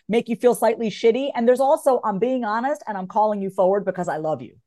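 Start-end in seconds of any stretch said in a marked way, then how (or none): 2.0-4.6 sincere caring tone. Shown as a demonstration. Friend calling you forward, sincere and caring. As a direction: say it out of love. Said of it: "there's a different tone".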